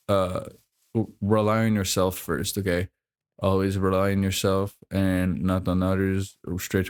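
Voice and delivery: flat, just-woke-up monotone. Real, not acted. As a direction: speak in a sleepy monotone. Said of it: "Sorry if I sound kind of monotone".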